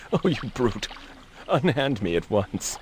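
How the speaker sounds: melodramatic damsel protest; hammy stage actor. Acted. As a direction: overplay it like old theatre.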